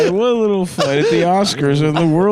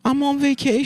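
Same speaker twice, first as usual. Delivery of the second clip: high, thrilled guest squeal; Oprah audience voice; 10 semitones higher, faster than usual. Retold or imitated. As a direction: gush like a studio audience member. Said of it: "talking like she was in an Oprah audience".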